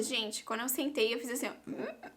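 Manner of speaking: normal talking voice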